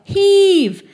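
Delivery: a huge, high bellow of effort; shouted heave. A narrator's reading. Narrator shouting to the crowd tipping the car, a full bellow.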